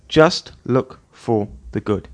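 Just look for the good said slowly and evenly; slow restatement. Shown as a demonstration. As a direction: spell it out gently and slowly. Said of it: "That's it".

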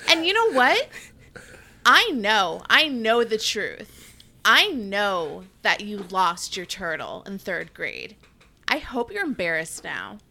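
loud, mock-angry taunts with rising pitch; hammed-up taunting. Rival picking a fight for the reality show cameras, loud mock taunts.

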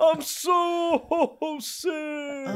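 slow, groaning hungover Santa; sick Santa voice. Acted. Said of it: "You sound a little sick".

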